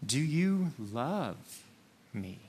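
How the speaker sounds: LOVE stretched with a rise and fall, pause before "me"; slow question that dwells on LOVE; stress on LOVE. Shown as a demonstration. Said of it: "emphasize different words".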